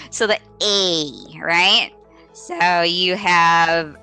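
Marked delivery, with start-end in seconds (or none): 0.6-1.4 a drawn-out long A vowel; correct long A. Shown as a demonstration. Teacher models it correctly, long A held out. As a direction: hold the letter "A" long. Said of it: "I always want them to say it correctly".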